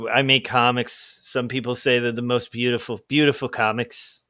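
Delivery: a hint of a boastful Trump; weak Trump impression. Self-styled bad Trump bragging about comics, lightly imitated. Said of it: "I can't do a good Trump".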